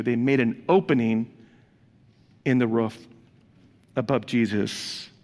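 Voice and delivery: fighting back tears while reading; reading scripture, overcome with emotion; choked up. Real, not acted. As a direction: voice catching on the last words, real emotion. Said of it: "I just got emotional".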